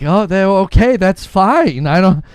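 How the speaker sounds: a touch of frazzled worry; startled clerk. Acted. GameStop clerk startled by customer, mildly flustered. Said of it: "employee at GameStop being like".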